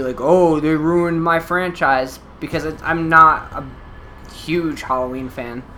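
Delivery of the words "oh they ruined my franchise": mock-prissy whine, drawn out slowly; prissy complaint. Podcaster mimicking a precious Halloween fan, mock-prissy. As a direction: imitate a fussy fan's slow lament. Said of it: "I don't wanna sound kind of, like, prissy".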